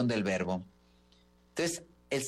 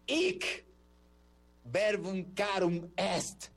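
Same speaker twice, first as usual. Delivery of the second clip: solemn Latin; 5 semitones higher, much slower than usual. Shown as a demonstration. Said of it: "ahí dice".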